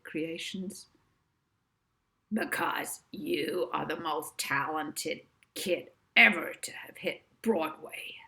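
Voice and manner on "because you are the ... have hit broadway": breathy dreamy whisper; Barry adoring, half-whispered; sighed praise. Acted. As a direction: sigh it out in adoration. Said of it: "sighed Barry".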